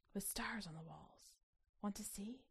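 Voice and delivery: soft, breathy whisper; a whispered invitation from the dark; hushed note. Acted. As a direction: read it like a secret. The paper's note, read hushed.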